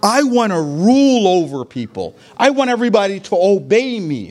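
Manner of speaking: lightly voiced would-be tyrant, a hint of arrogance; mock the self-important ruler, only a touch; egotistical ruler. Preacher mocks an egotistical leader, lightly arrogant. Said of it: "from an egotistical point of view".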